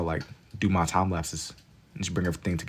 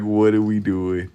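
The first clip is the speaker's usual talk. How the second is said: laughing quote; 4 dB louder, slower than usual. Retold or imitated. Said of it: "He said".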